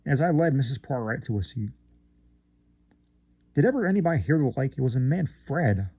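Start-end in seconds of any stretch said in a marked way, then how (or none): 3.5-5.9 mild bawl. Acted. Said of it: "bawled out Missus Bob Blue".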